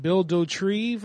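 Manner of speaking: "Dotrieve" ending in a TREEV sound; tentative pronunciation. Shown as a demonstration. Streamer reads out a viewer's suggested name, trying its pronunciation. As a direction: say "Dotrieve" slowly, as doh-TREEV. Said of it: "I think that's how you pronounce it".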